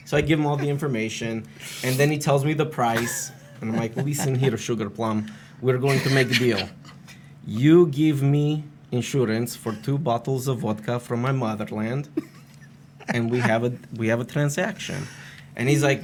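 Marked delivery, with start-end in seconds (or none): 4.0-15.1 put-on Romanian accent. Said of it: "I put on a Romanian accent".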